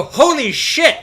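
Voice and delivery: high, loud, laughing yell of shock; startled shout. Retold or imitated. Deckhand yelling as the searchlight hits the boat, shocked shout. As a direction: blurt it out like the light just blinded you.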